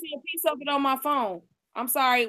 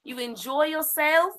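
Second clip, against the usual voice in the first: a lightly voiced elegant lady, unhurried; Lady Elegance voice; 3 dB louder than usual. Host signs off to stream viewers in a hint of a ladylike voice. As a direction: play a gracious lady bidding the viewers good night, lingering on each wish. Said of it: "in my Lady Elegance voice".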